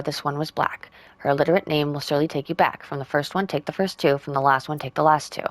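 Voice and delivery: even, measured read-aloud of a note. Acted. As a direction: read the riddle out clearly. Reads a game letter aloud.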